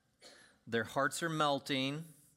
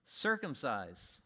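circumcise said very slowly, lower; slow deadpan; 3 semitones lower, much slower than usual. Acted. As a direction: let it land slowly, deadpan. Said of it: "What do we do?".

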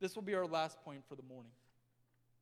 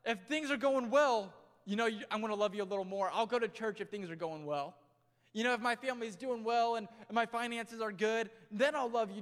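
conditional believer; 3 semitones higher, 8 dB louder than usual. Retold or imitated. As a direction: play someone bargaining with God, pushy and loud. Mocking a conditional believer's promise.

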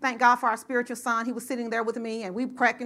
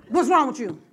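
louder, harder ghetto snap; real ghetto; 5 dB louder than usual. Retold or imitated. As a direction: bark it like a street mom. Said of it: "This how I was talking, real ghetto".

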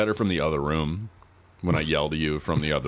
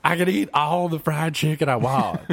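zombie voice; 10 semitones higher than usual. Pretend. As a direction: groan it out like a silly zombie. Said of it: "being a zombie".

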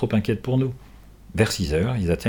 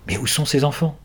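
alarmed cry; 5 semitones higher than usual. Acted. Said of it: "s'écrie-t-elle".

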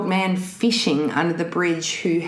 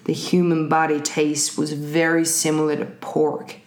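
calm psychopath; 4 semitones lower than usual. Acted. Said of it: "Keep going".

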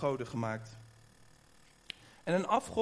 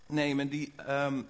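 while sipping a drink. Real, not acted. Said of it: "Ik moet even een slokje".

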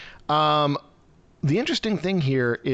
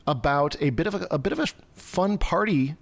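dry sarcasm with a slight lift on "fun party"; lightly ironic, hesitating into the euphemism; sarcastic; 4 semitones higher than usual. Real, not acted. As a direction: understate it with mild sarcasm. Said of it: "I'm being extremely sarcastic in that".

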